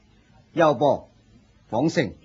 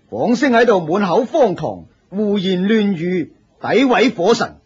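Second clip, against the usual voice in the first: indignant accusation; 4 semitones higher than usual. Acted. Senior accuses newcomer to master.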